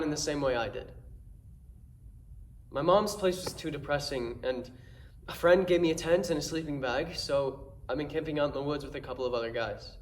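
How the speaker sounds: subdued, haunted monologue with halting pauses; troubled Jason. Acted. Performs Jason's dramatic monologue.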